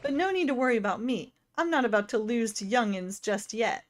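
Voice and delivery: voicing a spry old game character. Voices NPC dialogue in game.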